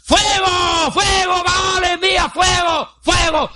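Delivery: very high, drawn-out mock cries; imitated frantic shouting. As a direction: mimic frenzied prophets begging their god. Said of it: "Y gritaban".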